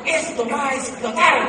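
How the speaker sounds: a light hammed-up imitation of a sure-of-himself seller; imitating the excited Spaniard. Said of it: "decía el señor".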